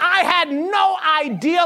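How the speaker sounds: high-pitched, hammed-up pleading; mock dismay. Believer pleading ignorance to the Lord, mock dismay. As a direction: play at being stunned and innocent.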